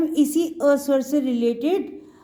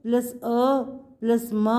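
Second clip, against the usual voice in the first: slow spelling out; slower than usual. Shown as a demonstration. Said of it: "plus ग".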